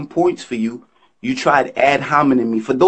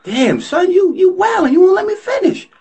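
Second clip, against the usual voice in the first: exasperated outburst. Real, not acted. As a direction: let me finish, fed up. Cut off before his rap.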